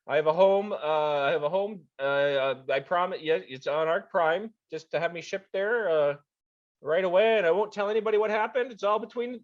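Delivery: high, nervous rushed pleading; panicky. Acted. Annie pleading to avoid a retinal scan, panicky. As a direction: talk your way out of the scan. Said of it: "he becomes suddenly very panicky".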